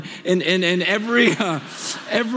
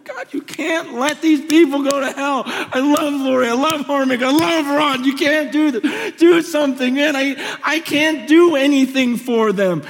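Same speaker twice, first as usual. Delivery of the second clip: higher, pleading with God; impassioned retold prayer, pitched up; retold tearful begging; 4 semitones higher than usual. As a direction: plead urgently, as if remembering tears. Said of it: "just weeping and just begging God".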